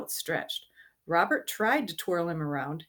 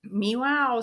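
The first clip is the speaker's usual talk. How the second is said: pretend cat; 6 semitones higher, 5 dB louder than usual. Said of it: "She's pretending she's a cat".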